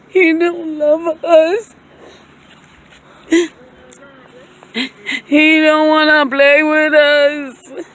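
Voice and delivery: slow, loud, mock-hurt whine; hammed-up slow sulk. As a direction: pretend to be hurt the dog ignores you. Mock sulking the dog won't play.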